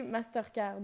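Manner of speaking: "Mastercard" with French vowels and R's; own French pronunciation. Shown as a demonstration. Guest shows how she says a card brand, French-accented "Mastercard". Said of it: "Parce que moi, je dis".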